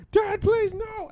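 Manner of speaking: very high-pitched imitation of a pleading child; hammed-up high kiddie begging; hysterical kid. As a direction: mimic a small boy wailing to his dad. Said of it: "he was hysterical back to it".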